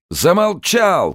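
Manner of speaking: furious high shout; a prisoner's enraged scream. Acted. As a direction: bellow it to silence him. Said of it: "крикнул Йоханссон".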